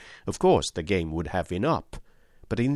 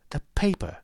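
excited yell; 10 semitones higher than usual. A narrator's reading. Holmes yelling in excitement at his discovery. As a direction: yell it as it suddenly clicks. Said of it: "yelled Holmes, in a paroxysm of excitement".

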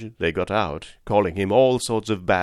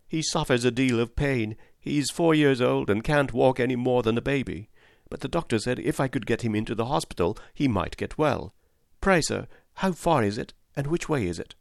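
higher-voiced worried young woman; anxious poor mother; 4 semitones higher than usual. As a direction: plead politely as a tired mother. Poor mother pleading with cabman.

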